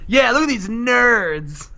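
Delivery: lightly acted jeering sidekick; a punk musician. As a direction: stretch out the taunt. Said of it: "And Sid says".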